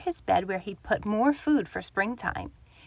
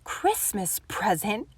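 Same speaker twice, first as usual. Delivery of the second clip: snorting; 3 dB quieter than usual. Acted. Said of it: "snorted Grumpy Badger".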